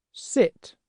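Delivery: "Sit" said high and falling; dog owner's command. Shown as a demonstration. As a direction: order the dog with a drop. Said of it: "They say things like".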